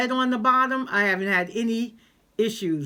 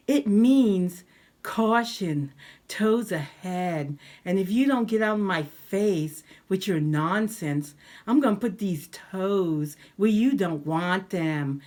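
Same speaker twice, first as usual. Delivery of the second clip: drawn out, slow and pointed; slow taunting; 5 semitones lower, slower than usual. Retold or imitated. Retelling the rude shopper, slow mock taunt. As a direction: spell it out slowly to mock her. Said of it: "in her own language".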